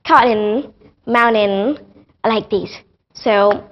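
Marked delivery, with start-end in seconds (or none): 0.0-1.8 British COTTON and MOUNTAIN with T and vowel sounded; British style, no swallowed syllables in cotton, mountain; British accent. Shown as a demonstration. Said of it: "But in British accent".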